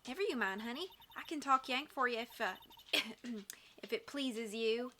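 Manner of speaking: reassuring Southern twang; Southern accent. Acted. Witness easing an overwhelmed girl, reassuring Southern accent. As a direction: put them at ease in a Southern accent. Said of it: "maybe I should give her a Southern voice".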